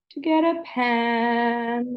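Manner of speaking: slowed down. Shown as a demonstration. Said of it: "This is me slowing down".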